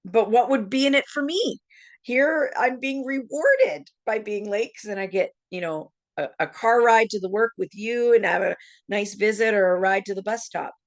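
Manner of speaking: mock scheming inner voice. To herself, plotting to be late on purpose, a sly mock musing. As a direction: talk yourself into the perk. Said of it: "And I said to myself".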